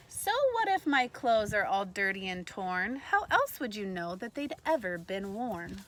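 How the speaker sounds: bright, lively read-aloud voice; reading to children. A narrator's reading. Teacher reading a picture book to kindergartners, lively read-aloud. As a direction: read it like story time for little ones.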